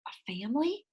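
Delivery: soft, hopeful rising question; quiet hopeful girl; hopeful whisper. A narrator's reading. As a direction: whisper it with hope. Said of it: "she whispers hopefully".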